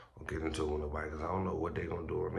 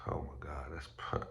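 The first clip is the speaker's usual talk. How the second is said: whispering; 2 semitones lower, 7 dB quieter than usual. Real, not acted. Exasperated aside after a sigh.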